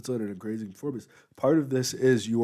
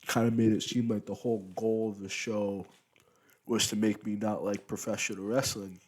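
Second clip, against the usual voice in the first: talking with a mouth full of food; words round a bite of food. Real, not acted. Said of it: "Sorry for talking with my mouth full".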